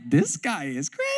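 disbelieving, ending in a high laugh; student laughing in disbelief at the coach; incredulous laugh. Retold or imitated. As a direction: laugh at how absurd it is. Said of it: "I'm like".

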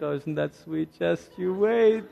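soft, then slow knowing tease. Retold or imitated. Older couples tease young lovers, softly and knowingly. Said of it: "and you're like".

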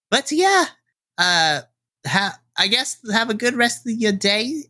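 lightly voiced friendly diner waitress; a hint of a warm Southern server; kindly waitress Minnie. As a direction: chat sweetly to the regulars.

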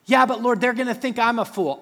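high anxious plea; whiny Moses. Acted. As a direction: drag out the excuse, pleading. Moses arguing with God.

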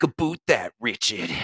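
put-on coastal Maine twang; coastal Maine accent. Podcaster teasing a friend who talks weird, mock Maine coast accent. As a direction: imitate a Maine lobsterman's accent. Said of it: "he sounds like he is".

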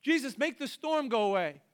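high, pleading no-no-no; panicked disciples. Acted. Disciples in the boat pleading with Jesus in panic. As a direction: beg Jesus to fix it. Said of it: "the other disciples would have been like".

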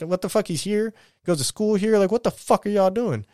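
high-pitched, outraged disbelief; retelling his protest as his son is taken away, pitched high in disbelief; retold disbelief. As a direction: throw the question up high, exasperated.

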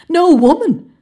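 high, loud scornful scoff. Acted. Hartford mocking his companion's denial, loud scoff. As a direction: throw the words back in disbelief. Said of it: "scoffed Hartford".

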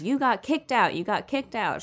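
mad little sister. Retold or imitated. Little sister confronts her expelled brother, mad. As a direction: act out a kid catching her brother out. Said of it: "She's so mad".

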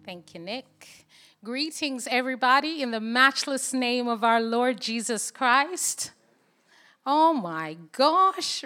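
normal talking voice

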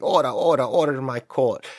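loud, banging-the-gavel call for order; a judge calling for order. Pretend. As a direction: call the court to order loudly. Judge calls court to order.

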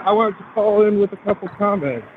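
slightly winded while walking; out of breath. Real, not acted. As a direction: talk a little breathless, mid-stride. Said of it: "sorry if I'm out of breath".

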